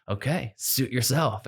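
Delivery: put-on slow, soft, unbothered old soldier; slow shrug. Captain Lou answering the brush-off, slow and soft. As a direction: let it go with a shrug.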